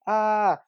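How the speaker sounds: high-pitched, contained "ah"; small imitation yell; restrained mock scream. Shown as a demonstration. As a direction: do a held-back movie scream. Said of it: "I'll just do it quietly so it doesn't sound so bad".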